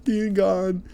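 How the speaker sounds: slow, high-pitched mock-plaintive voice; mock a celebrity's woes, high and drawn out; put-on high voice, dragging each phrase; Khloe Kardashian. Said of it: "she's like".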